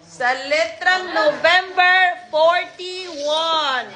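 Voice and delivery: sing-out, drawn-out ball calls; measured caller's cadence with stretched numbers; bingo caller. Real, not acted. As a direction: announce each letter and number to the room.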